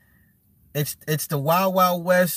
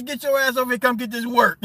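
shouted dare, pitched way up; hyped taunt; 7 semitones higher, faster than usual. Retold or imitated. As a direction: call them out like a fight challenge. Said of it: "Tell his family".

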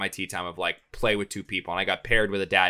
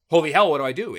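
higher and louder mock panic; panicked; 5 semitones higher, 6 dB louder, faster than usual. Finding sixty hornets on his bag, hammed-up panic. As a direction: throw up your hands at the swarm.

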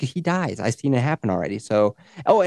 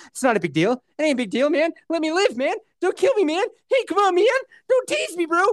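pleading climbs higher and higher; begging more and more frantically; desperate begging, rising higher; 3 dB louder than usual. Retold or imitated.

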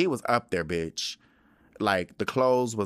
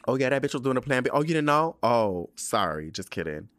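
mock shady gossip; 3 semitones higher than usual. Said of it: "Larys voiced gossiping".

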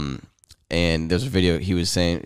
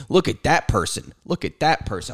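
higher-pitched mock dad calling out; excited pointing dad; 7 semitones higher than usual. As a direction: point people out, voice jumping up. Voices dad pointing at strangers.

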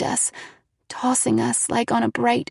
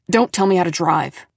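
snapping; 3 semitones lower, 5 dB louder than usual. A narrator's reading. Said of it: "he snapped".

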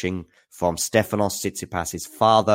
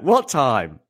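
retold incredulous quote; 3 semitones higher than usual. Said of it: "when he said that".

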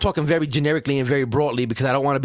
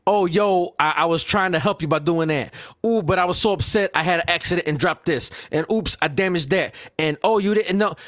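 mocking imitation. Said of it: "now you sitting up talking about".

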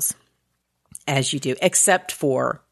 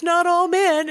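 mock smug villain; 13 semitones higher than usual. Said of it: "he's one of those".

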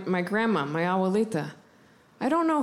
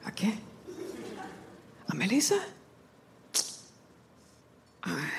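great grandma's voice; 8 dB quieter than usual. Retold or imitated. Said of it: "my great grandma's voice".

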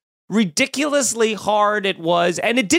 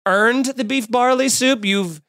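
scolding parent; 2 semitones higher than usual. Retold or imitated. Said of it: "I thought she was just scolding me".

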